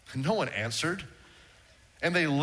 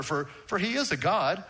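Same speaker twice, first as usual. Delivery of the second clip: mocking taunt; 3 semitones higher than usual. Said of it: "Elijah begins to mock them".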